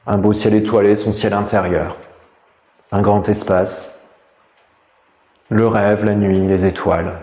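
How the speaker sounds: calm, measured meditation voice with long pauses; guided meditation. Real, not acted. Teacher guiding listeners lying down through a body scan, meditative. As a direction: guide them inward, leaving space between phrases.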